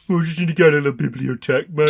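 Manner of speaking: a light Brummie twang on a French word, laughing; mock Brummie bloke dropping in French; brummy accent. Friends mocking a fake French role, light Brummie accent. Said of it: "someone with a really brummy accent going like".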